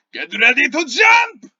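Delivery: high, full-force shout; rally everyone with a huge yell; shouted battle command. Acted. Game master as Balthazar readying the party, roaring shout. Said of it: "and he says".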